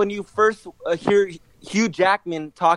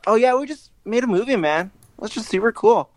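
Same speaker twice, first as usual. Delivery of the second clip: higher-pitched, lightly imitated easygoing guy; just-there actor; 4 semitones higher than usual. Imitating Mark Ruffalo in interviews, lightly voiced easygoing manner. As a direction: casually imitate someone who is just along for the ride. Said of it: "sounds like he was just there".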